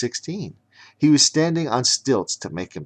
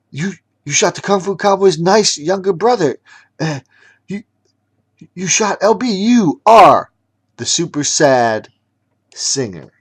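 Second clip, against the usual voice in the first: angry shout; 10 semitones higher, 11 dB louder than usual. Acted. Angry accusation continues.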